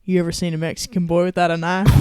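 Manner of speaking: imitating a Southern grandpa proud of his joke; quick, lightly voiced Texan grandpa. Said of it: "he's real proud of himself".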